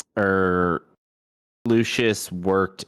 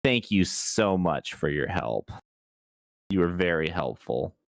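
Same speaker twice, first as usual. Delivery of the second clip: very sarcastic. Acted. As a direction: thank them with pointed fake politeness. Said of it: "I make it sound very sarcastic".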